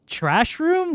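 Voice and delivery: high squeaky mock fright; high, halting, pretend-frightened question; mock scared. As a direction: play at being a scared kid lost in a basement. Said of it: "And I'm like".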